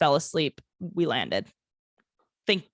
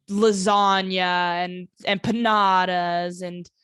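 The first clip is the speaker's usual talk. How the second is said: joking exaggeration; 3 dB louder, much slower than usual. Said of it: "I'm kidding".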